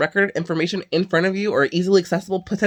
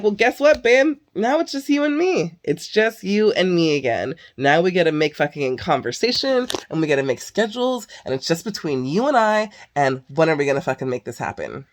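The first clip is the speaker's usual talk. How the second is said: mock sweet taunt. Taunting her ex over text in fake sweetness. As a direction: sweetly rub it in, pitched up.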